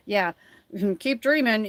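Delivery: mildly sarcastic, with a small laugh; lightly mock it with a dismissive chuckle. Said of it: "it almost felt like a sarcastic".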